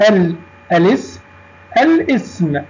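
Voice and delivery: الاسم broken after a clearly sounded al; pronounced lam. Shown as a demonstration. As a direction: say الاسم as al ... ism. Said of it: "كتبت ونطقت".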